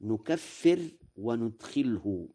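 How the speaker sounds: nukaffir and nudkhilhu with an N, as "نكفر وندخله"; Warsh reading. Shown as a demonstration. Lecturer demonstrating Warsh's variant to listeners, Warsh reading. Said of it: "قرأ ورش".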